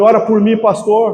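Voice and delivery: put-on tearful voice, crying through tears.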